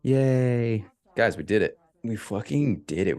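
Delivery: excited cheer. Real, not acted. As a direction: celebrate the win to the room. Celebrating a win.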